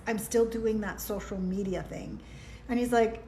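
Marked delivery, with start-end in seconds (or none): 0.1-2.2 "still doing that social media thing" dropped softer and falling, deadpan; flat retort. Retold or imitated. She retorts to her ex's question, deadpan. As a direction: answer it back flat and final. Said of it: "And I'm like".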